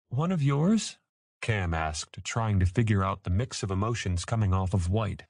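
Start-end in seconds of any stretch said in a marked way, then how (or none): 0.1-1.0 high, rising query; puzzled question. A narrator's reading. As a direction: ask in curious puzzlement.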